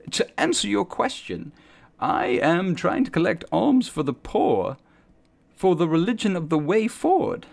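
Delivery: earnest zealot explaining his faith; a hint of a fervent street preacher; preacher NPC.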